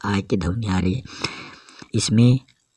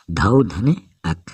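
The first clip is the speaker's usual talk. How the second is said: slow split. Shown as a demonstration. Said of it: "धावक".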